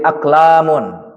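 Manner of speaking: aklamun drawn out slowly for the class; slow model reading. Shown as a demonstration. Teacher to students, modelling the tanwin reading slowly. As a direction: say "aklamun" slowly, every syllable clear. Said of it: "teacher models reading with tanwin".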